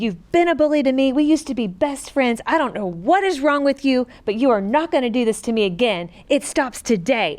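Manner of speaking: mild mock outburst, firm and upset; retold tearful yelling. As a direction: retell standing up to a bully, without really shouting. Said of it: "I'm yelling all, and I'm crying".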